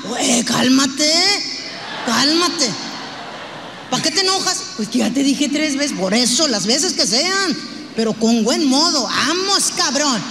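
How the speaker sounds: husband brushing off his nagging wife; mock husband. Husband at the table telling wife calm down, in a mock gruff voice.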